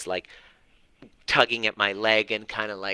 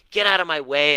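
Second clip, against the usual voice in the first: imagined snap; 6 semitones higher, 5 dB louder than usual. Retold or imitated. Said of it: "I'd probably kick him and go".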